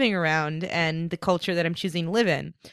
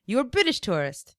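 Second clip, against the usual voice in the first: mock hostile local; 8 semitones higher, 4 dB louder than usual. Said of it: "a fake tourist thing".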